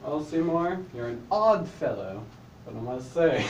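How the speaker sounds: low, lightly put-on British accent. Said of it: "Quit saying it in a British accent".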